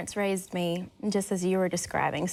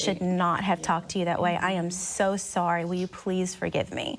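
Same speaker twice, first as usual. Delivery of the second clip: put-on earnest, lower-key apology to a child; retold gentle apology; 3 semitones lower than usual. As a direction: apologize tenderly, as to your toddler. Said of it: "pulled her over to the side".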